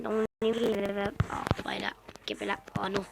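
breathy whisper to himself. Real, not acted. Gamer whispering to himself while hunting seeds in the field. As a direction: whisper it under your breath, thinking aloud. Muttering to self while playing.

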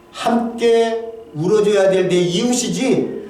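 drawn out slowly, leaning on 함께; slow down and weigh every word; slow emphasis. Real, not acted. Pastor telling the congregation about his neighbors, slow and deliberate.

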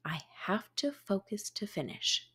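soft whispered reminder to herself. A narrator's reading. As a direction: whisper it to yourself.

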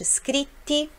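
"scritti" with a long held double "tt"; strong double t. Shown as a demonstration. Teacher to students, stressing the double "tt" in "scritti". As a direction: stretch the "tt" in "scritti". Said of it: "Também dupla, som forte".

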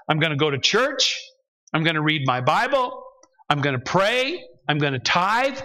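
lightly acted list of promises, rising at the ends; transactional believer. Believer bargaining with God, reeling off promises. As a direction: tick off each promise, lightly in character. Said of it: "Here's what it sounds like".

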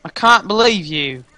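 lightly faked British accent; annoying fake accent. Guest telling off the host, annoying British accent. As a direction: protest in a silly British accent. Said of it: "These accents are so annoying".

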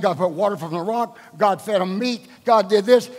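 ordinary delivery

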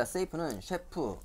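very slow, playful pun; slow teacher wordplay; slow mnemonic. Shown as a demonstration. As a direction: drag out the pun for the kids. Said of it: "wordplay mnemonic".

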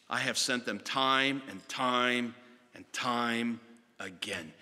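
slow, drawn-out repeated time; sorrowful lament. Acted. God lamenting to the vineyard tenants, slow and sorrowful. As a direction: linger on each time like weary grief.

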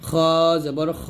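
খ held long with a rounded "o" vowel. Shown as a demonstration. Teacher repeating the corrected letter, খ rounded as "kho". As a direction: draw out খ from the throat as "kho". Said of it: "খা বলা যাবে না".

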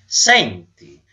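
high, loud, disgusted telling-off; disgusted scolding. Acted. Nose lectures its owner on nose-picking, disgusted and high. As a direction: scold in disgust, drawing the words out. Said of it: "arricciandosi tutto per il disgusto".

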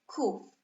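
"Kraków" in two separated syllables, "Kra", long pause, "ków"; podział na sylaby. Shown as a demonstration. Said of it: "Ile sylab ma słowo Kraków?". („Kraków” sylabami: „Kra”, pauza, „ków”)

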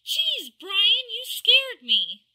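startled. Real, not acted. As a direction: jump at the sudden voice. Startled by sudden voice.

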